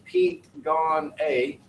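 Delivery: "Pete gone A" said slowly, each word spelled out; slow, careful "Pete gone A"; slow demo of the phrase. Shown as a demonstration. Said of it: "The phrase".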